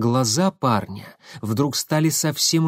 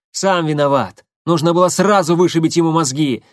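громко; 4 semitones higher, 5 dB louder than usual. Acted. Корнилов кричит на водителя.

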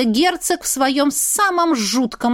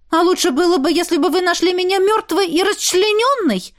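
indignant retort; 8 semitones higher than usual. A narrator's reading. Heroine indignantly snaps back at the duke. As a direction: throw it back at him, offended. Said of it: "возмутилась уже я".

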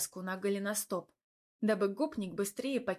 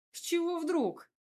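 high, sharp indignant question; indignant outburst, pitched high; 8 semitones higher than usual. Acted. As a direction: bristle with outrage. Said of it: "возмутилась я".

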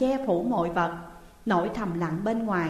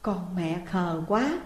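tender; 3 semitones lower, slower than usual. Acted. Moved mother soothing her daughter, slow and tender. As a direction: gently pity the child. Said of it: "Bà thấy xúc động vô ngần".

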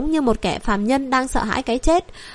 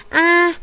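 short, high narrated yelp of fear; mildly acted startled "A!"; frightened cry; 5 semitones higher, 4 dB louder than usual. A narrator's reading. Prince recoiling from the queen's gaze, brief frightened cry. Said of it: "hắn phát ra một tiếng kêu sợ hãi vô cùng quái dị".

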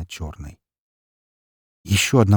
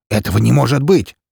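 неверие; 5 semitones higher, 8 dB louder than usual. Acted. Распутин не верит.

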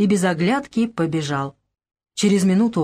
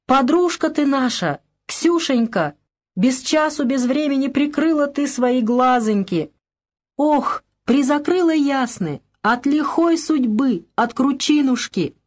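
high, slowing folk keening for the drowned friend; high, slow mourning lament over the drowned girl; heart-rending wail; 6 semitones higher, slower than usual. A narrator's reading. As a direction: wail it like a village lament, drawing out the end. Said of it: "надрывно заголосила".

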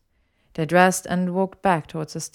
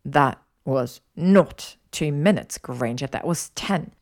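defensive; 3 dB louder, slower than usual. Acted. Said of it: "felt the need to justify himself".

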